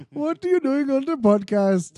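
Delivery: high mimicked comedian voice; Bill Cosby. Co-host mimicking the other's act, Bill Cosby impression. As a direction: imitate your co-host's impression, pitched right up. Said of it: "your Bill Cosby is like".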